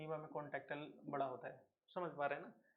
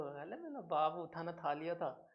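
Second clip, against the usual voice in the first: slow lisping lovey-dovey coo; slow mock baby talk to a sweetheart; slower than usual. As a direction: tease lovers who lisp on the phone. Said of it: "मोहब्बत में तोतले हो जाते हो".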